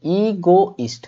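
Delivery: ईगोइस्ट slowly, ee-go-ist in separate beats; syllable-by-syllable. Shown as a demonstration. Teacher models for students to repeat, ईगोइस्ट slowly broken up. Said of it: "repeat करो खुद से".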